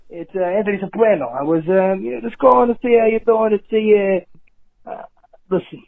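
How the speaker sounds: mild, halting Tony Soprano voicemail to his therapist; Tony Soprano impression. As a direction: leave a sheepish apology voicemail as a hint of Tony Soprano. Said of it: "I got Tony Soprano".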